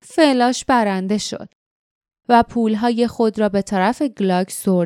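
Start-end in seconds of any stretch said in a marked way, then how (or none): 0.1-1.5 slow, grudging admission; annoyed. Acted. Jinks grudgingly admits he lost the spider bet. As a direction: concede it through your teeth, sulking. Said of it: "جینکس با دلخوری تایید کرد".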